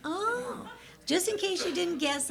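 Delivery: high, laughing delivery of a joke. Real, not acted. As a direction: tease the crowd through the laugh. Joking about being a senior.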